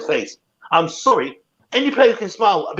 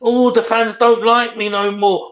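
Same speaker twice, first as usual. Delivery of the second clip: slightly higher, drawn-out mock complaint; mock self-pity; 5 semitones higher, 3 dB louder, slower than usual. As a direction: lightly imitate a player feeling sorry for himself, slowly. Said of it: "He's still probably sitting there now fucking thinking".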